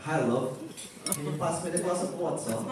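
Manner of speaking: mock posh British accent, hammed up; put-on British accent. Showing off a YouTube-learned British accent at her family dinner. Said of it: "I was like".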